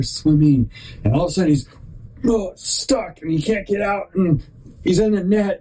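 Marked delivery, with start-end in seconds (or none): 2.3-5.6 playing the turtle's panic, pitched up; mock panic. Storyteller voicing a trapped sea turtle in a net, mock panic.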